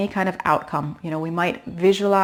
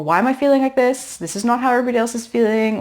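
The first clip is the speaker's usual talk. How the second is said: higher and rushed, fretting; mild panicky self-talk; anxious inner voice; 3 semitones higher, 3 dB louder than usual. Retold or imitated. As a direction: worry out loud, faster and faster. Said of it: "when that little voice comes in with".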